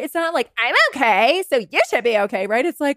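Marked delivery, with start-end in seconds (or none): 0.6-2.5 tense, defensive comeback. Shown as a demonstration. Single person answering pity the wrong way, defensive. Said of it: "not being in this defensive place".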